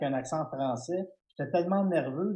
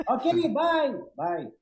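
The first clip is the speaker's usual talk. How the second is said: much higher, louder goodbye; mock cheery sign-off; 11 semitones higher, 6 dB louder, much slower than usual. Comedian retelling hanging up on Louis, high mock-cheery bye. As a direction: chirp a quick phone goodbye. Hurried hang-up of retold call.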